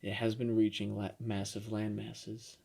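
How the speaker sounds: slow, soft news delivery; mock news-podcast voice. Host repeating the made-up war report, mock news voice. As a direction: draw it out like a daily news host. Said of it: "you sound like The Daily".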